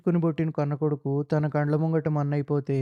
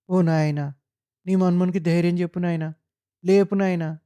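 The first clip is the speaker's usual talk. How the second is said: crying; 3 semitones higher, 4 dB louder than usual. Acted. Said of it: "తండ్రి మీద పడి ఏడ్చింది".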